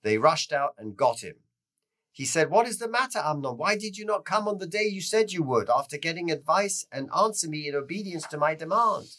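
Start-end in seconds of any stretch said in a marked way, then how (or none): 2.5-9.1 higher-pitched retold questioning; lightly acted demand for an answer; demanding ruler. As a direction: question him as a ruler would. Ruler interrogates man who failed to come.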